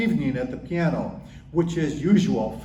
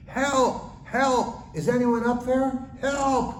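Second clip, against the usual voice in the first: high desperate cries for help; calling for help; 10 semitones higher, slower than usual. Acted. Man hanging from a cliff calls for help, high desperate cry. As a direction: cry out from the cliff, much higher. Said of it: "Jack began yelling for help".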